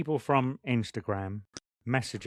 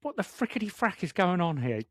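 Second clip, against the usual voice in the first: retold bewilderment; 6 semitones higher than usual. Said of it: "I'm like".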